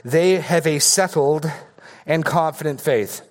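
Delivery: dictating for notes. Shown as a demonstration. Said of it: "here's your blanks".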